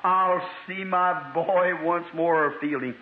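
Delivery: slow, drawn-out mock-tearful blessing; imitated weeping. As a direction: retell an old father's weeping words, stretched out slowly. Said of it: "He wept and he said".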